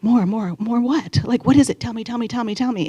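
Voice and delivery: retold urgent begging, pitch lifted; impatient pleading.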